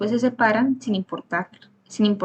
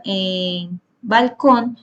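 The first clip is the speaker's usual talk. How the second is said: syllable demo slow; much slower than usual. Shown as a demonstration. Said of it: "bal sería la sílaba atona".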